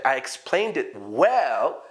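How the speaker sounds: very slow, every word spelled out; slow example sentence. Shown as a demonstration. Teacher reads an example sentence very slowly. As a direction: read the example slowly for learners. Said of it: "the word well is connected".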